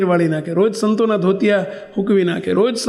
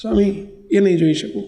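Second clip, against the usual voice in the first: a higher, mildly tearful pleading voice; retold tearful plea; 3 semitones higher than usual. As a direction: plead through tears, but understated. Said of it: "રડતો જાય ને બોલતો જાય". (રડતાં રડતાં કરેલી હળવી વિનંતી)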